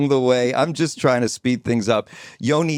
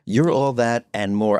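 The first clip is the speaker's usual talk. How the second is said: baritone; 3 semitones lower than usual. Shown as a demonstration. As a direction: drop it down and stretch it out. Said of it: "you went to baritone on that".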